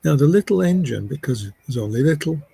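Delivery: lilting story narration with pauses; lifted openings, phrase by phrase; storytelling. Acted. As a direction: tell it like a simple tale for listeners at rest. Begins telling a little story.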